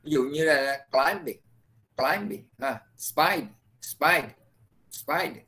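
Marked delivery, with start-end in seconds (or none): 0.9-2.5 CLIMBING with the first syllable stressed and long; stressed word demo. Shown as a demonstration. Teacher gives students an example of stress, stressed demo. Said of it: "nó nhấn mà ha". 3.0-5.3 SPIDE repeated separately, final D sounded; unswallowed final sound. Shown as a demonstration. Teacher warns students against swallowing sounds, full endings. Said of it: "Đừng có nuốt âm, mất âm á".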